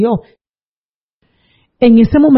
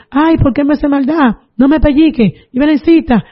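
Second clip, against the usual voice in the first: mild mock yell, pitched up; retold screaming; 5 semitones higher than usual. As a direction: act out grandma's cries without volume. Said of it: "Y ella gritando". (gritos imitados, agudos pero contenidos)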